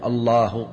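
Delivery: الله said alone, then a long halt; broken-off phrase. Shown as a demonstration. Teacher showing an invalid takbir, broken after الله. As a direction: stop dead after الله. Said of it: "بعد شوي يقول".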